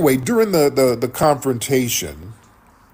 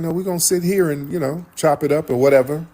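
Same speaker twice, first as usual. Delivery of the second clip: pitched-up imitated refusal; retold refusal; 6 semitones higher, faster than usual. Corey declining to go outside, retold refusal. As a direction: act out someone turning down a challenge, voice higher.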